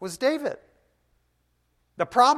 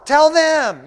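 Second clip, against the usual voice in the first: loud exhortation; 11 semitones higher, 14 dB louder than usual. Acted. Pastor commanding his congregation, loud. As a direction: Tell them shouted high and loud.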